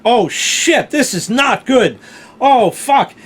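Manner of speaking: loud, tense worried reasoning. Retold or imitated. Fearing the old drive set the towel alight, loud and worried. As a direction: talk it through in mounting alarm. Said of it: "And then I said".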